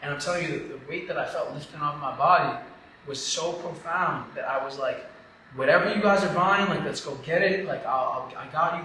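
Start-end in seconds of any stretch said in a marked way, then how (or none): 5.5-8.8 loud, high burst easing down; excited re-enacted offer; retold eagerness. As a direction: jump in, totally sold. Retells eager reply to the kids.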